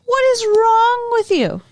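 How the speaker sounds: high, drawn-out exasperated demand; scandalized scolding. Retold or imitated. Brandon scolding the party host, exasperated. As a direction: plead in outraged disbelief, stretching the words.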